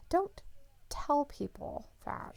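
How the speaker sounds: hushed whisper, breath only. Real, not acted. Streamer jokingly hushes a chatter in a whisper. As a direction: whisper it like a secret to the chat. Teasing a chatter about toilet paper.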